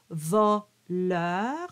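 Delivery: "Voleur" drawn out with an open O. Shown as a demonstration. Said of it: "Voleur is an open O".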